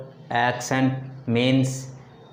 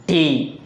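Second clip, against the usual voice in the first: "T" said alone as the stressed syllable; 3 semitones higher than usual. Shown as a demonstration. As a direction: give "T" extra force. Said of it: "takes the stress".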